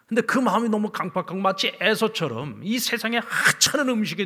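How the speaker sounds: loud, high-pitched sermon delivery; impassioned preaching. Real, not acted. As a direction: drive the lament home at full force. Preaches at full force.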